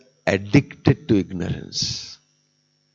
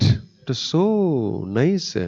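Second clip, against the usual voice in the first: high, drawn-out relish on so nice; savouring delight; 6 semitones higher, much slower than usual. Acted. Preacher voicing Indra enjoying pig life, slow dreamy relish. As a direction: stretch it out, lost in pleasure.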